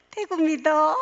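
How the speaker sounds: Gyeongsang-accented mock announcer; Gyeongsang dialect announcement. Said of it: "경상도 사투리로 하는 거죠".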